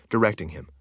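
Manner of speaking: usual speaking voice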